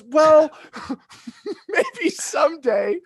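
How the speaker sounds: high, slow, coy giving-in; mock princess wavering, breaking into laughter; relenting Aurora. Aurora softening to the prince, high hammed-up wavering. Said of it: "She goes".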